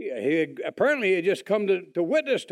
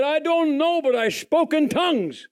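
higher, lightly voiced eager Jimmy; eager friend; 6 semitones higher than usual. Old friend Jimmy telling Bill about tongues, eager and higher. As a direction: play the excited friend fresh from church.

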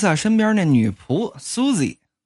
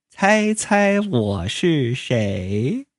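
playful teasing; 4 semitones lower, much slower than usual. Acted. Hiding behind sunglasses, surprise return.

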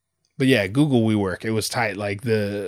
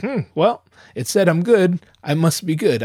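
mock casual self-talk; 6 semitones higher, 4 dB louder than usual. Mock reasoning voice.

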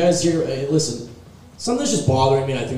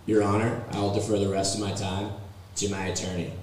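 frat guy; 4 semitones lower, 7 dB quieter than usual. Retold or imitated. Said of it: "here's my impression of a frat guy".

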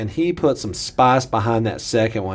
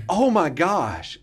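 slow pained gasp; 4 semitones higher, much slower than usual. Retold or imitated. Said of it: "I said that".

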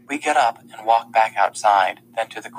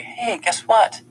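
mock announcement; 11 semitones higher, slower than usual. Girl mimics telling her parents.

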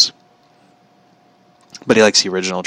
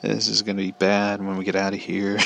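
worried mutter; 7 dB quieter than usual. Retold or imitated. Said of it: "I'm just like".

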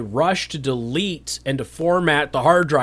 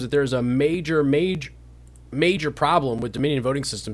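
hiccups. Real, not acted. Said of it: "I got the hiccups".

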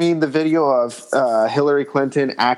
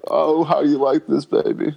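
higher, teasing cowboy come-on; hammed-up flirty cowboy; 3 semitones higher than usual. Playing Bill in a cowboy fantasy, hammed-up flirty voice. Cowboy role-play continues.

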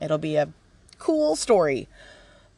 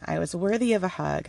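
ordinary talk, nothing marked

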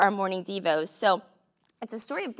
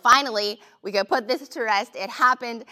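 relieved; 2 semitones higher, 5 dB louder than usual. Retold or imitated. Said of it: "the husband was, like, relieved".

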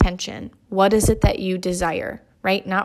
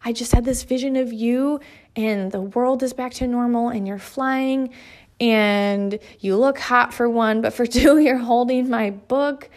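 excited retelling; 3 semitones higher than usual. Retold or imitated. Wife telling her husband about her vision, excited and laughing. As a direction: spill the good news to him with a laugh.

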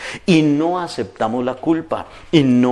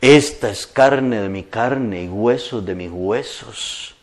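poetic; 2 semitones lower, slower than usual. Retold or imitated. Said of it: "se convirtió en un poeta".

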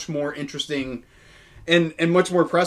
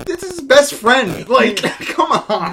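loud, much higher, slow disbelief; exasperated; 11 semitones higher, 9 dB louder, slower than usual. Real, not acted. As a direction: laugh it off in disbelief. Mocking fans' dog theory.

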